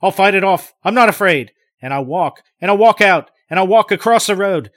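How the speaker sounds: high, loud, shaking bravado; scared man talking himself across the road; terror. Acted. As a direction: force courage through the fear. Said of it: "But his voice is in terror".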